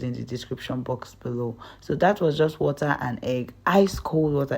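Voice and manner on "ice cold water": "cold" given a little extra weight; stress on cold. Shown as a demonstration. Cook telling viewers the water must be cold, stressing "cold". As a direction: lean into "cold" in "ice cold water". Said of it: "emphasis on the cold".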